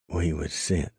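a hint of a cold, haunting dying gasp. A narrator's reading. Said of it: "the dying man's voice took on a cold, haunting note".

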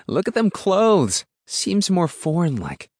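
high, loud rural woman's exclamation; scornful country woman. A narrator's reading. Woman inspects the captive boy's clothes, loud and scornful. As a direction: exclaim it high, sizing up a stranger.

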